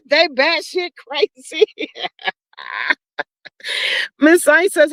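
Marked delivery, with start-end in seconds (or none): 0.0-3.0 real laughter breaking into slow, drawn-out words; stretched words between chuckles; amused laughing. Real, not acted. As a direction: crack up while repeating a funny line. Cracking up at viewer's comment.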